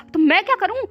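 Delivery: fed-up friend telling him to cut the call; exasperated. Acted. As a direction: snap at him to hang up.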